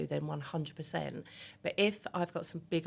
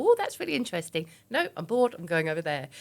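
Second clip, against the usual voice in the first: excited then bored; 6 dB louder than usual. Retold or imitated. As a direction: flip from thrilled to bored. Acting out flipping between interests.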